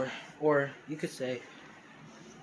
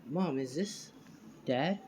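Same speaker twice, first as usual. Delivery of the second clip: lightly voiced little boy, higher pitch; a hint of a child asking; little Deku; 4 semitones higher, 4 dB quieter, slower than usual. Little boy asks his mom about Dad, lightly childlike. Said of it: "little Deku, pretty much is saying".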